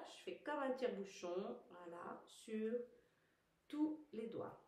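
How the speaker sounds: slow, measured instructor cueing; exercise guidance. Real, not acted. Teacher guiding viewers through finger stretches, slow step-by-step guidance. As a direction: lead the class through it unhurriedly.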